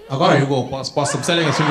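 pushy street seller; a street hawker selling a Hugo. Acted. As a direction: hawk it to a passer-by. Street seller hawking a perfume.

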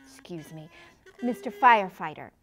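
ordinary talk, nothing marked

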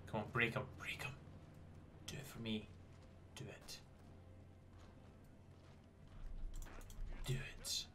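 hushed, pleading under the breath; will it on in a whisper; whispered urging. Real, not acted. Willing the attack on.

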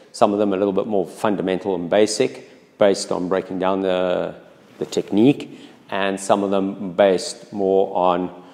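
muffled through a face mask; speaking behind a face mask. Real, not acted. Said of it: "please excuse the masks".

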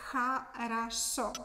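хорошо said slowly, each syllable clear: ha-ra-SHO; slow careful хорошо. Shown as a demonstration. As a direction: spell out хорошо slowly for learners. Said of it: "you need to know the phrase".

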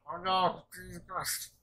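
high, loud dismayed cry; shocked outburst. Retold or imitated. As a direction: blurt it out like you just saw disaster. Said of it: "I go".

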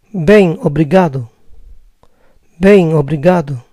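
Bem, obrigado with nasal bem; Brazilian bem obrigado. Shown as a demonstration. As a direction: answer as a Brazilian man. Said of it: "Si lo dice un hombre".

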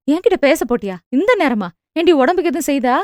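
quick, anxious questioning; a mother's rushed worry; fast fretful asking; worried, hurried. Acted. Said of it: "அவர் பதற்றம் குறையாமல்".

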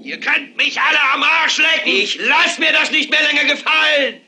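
high-pitched impassioned tirade; furious bellowing. Acted. TV anchor rousing viewers to the windows, high furious yelling. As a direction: yell it high to rouse every listener. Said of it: "schreit und brüllt".

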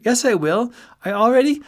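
high, loud, indignant objection; hurt protest. A narrator's reading. Friend defending himself as philosopher, high hurt protest. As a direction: protest way up high until cut off.

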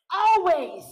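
hushed, breathy single word; whisper. Acted. Preacher whispering Always to the congregation. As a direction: whisper it to make it land.

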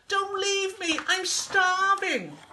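high, loud wail, drawn out at the end; theatrical desperate plea; pleading call. A narrator's reading. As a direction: beg loudly not to be left. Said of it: "called Wilbur".

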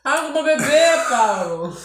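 talking while chewing food; muffled words between bites; mouth full, chewing. Real, not acted. Seen 0: Bit food at -4, lips pursed chewing through the words.

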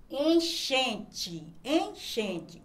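"enchente" drawn out, with CH as one sound; careful pronunciation demo. Shown as a demonstration. Teacher showing pupils a digraph, careful drawn-out "enchente". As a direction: say "enchente" slowly, letting CH make a single sh sound. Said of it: "quando eu digo assim".

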